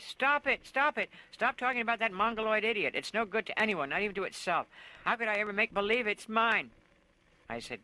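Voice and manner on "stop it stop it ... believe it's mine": much higher, much louder screaming. A narrator's reading. Miss Q screaming at the children to stop, hysterical. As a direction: shriek it at them, losing control. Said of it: "And she screamed at us".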